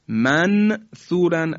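"منثورن" with a clear, separately sounded noon; izhar. Shown as a demonstration. Teacher shows what is incorrect, clear izhar. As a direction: say man, then thooran, no hum in "منثورن". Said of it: "اگر بگیم اظهار کردیم".

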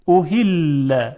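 احل drawn out, soft ordinary ه in place of ح. Shown as a demonstration. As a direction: slowly let a light breathed h flow in احل. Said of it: "اول با هی دو چشم". (تلفظ کشیدهٔ احل با هٔ دوچشم نرم)

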